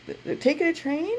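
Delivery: high-pitched mocking heckle; mock yelling back. Audience guy mocking back at the band, mock yell. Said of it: "yelling back to the".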